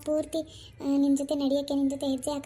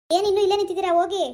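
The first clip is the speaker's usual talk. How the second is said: loud, impatient dismissal; raised, commanding voice; shouted order; 2 semitones higher, 6 dB louder, faster than usual. Acted. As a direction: send them off with a police shout. Policeman orders the couple away.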